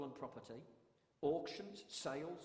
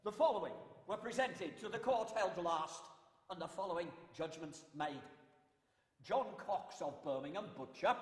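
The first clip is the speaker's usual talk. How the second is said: town crier. Shown as a demonstration. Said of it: "That was a court announcement".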